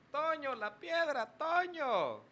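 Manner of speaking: high, slow mock shout from an old ad; a high mock yell from an ad. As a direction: yell for Toño and the rock. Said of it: "empezó el señor a gritar".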